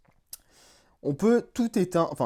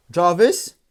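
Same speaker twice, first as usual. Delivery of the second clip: slow voice command; 3 semitones higher, 3 dB louder, slower than usual. Real, not acted. Voice command to the helmet.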